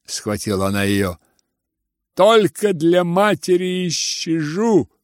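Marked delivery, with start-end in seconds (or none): 2.1-4.9 tragic declaration. Acted. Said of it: "трагически произнёс Ганя".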